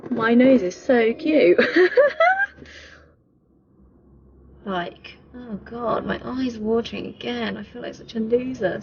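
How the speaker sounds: laughing through real happy tears; words wobbling with joyful tears; teary happy crying. Real, not acted. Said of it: "Stop crying".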